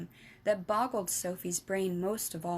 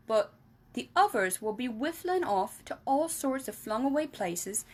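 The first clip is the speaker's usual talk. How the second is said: a hint of a big friendly giant, a little louder; lightly voiced friendly giant explaining; BFG voice; 5 semitones higher, 4 dB louder than usual. Giant explaining to Sophie, lightly voiced.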